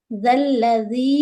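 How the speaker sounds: ذل لذی slowly, with soft dh sounds; measured ذل لذی with softened consonants; soft zaal. Shown as a demonstration. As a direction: keep each ذ gentle in ذل لذی. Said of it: "زال کو نرمی سے پڑھیں گے".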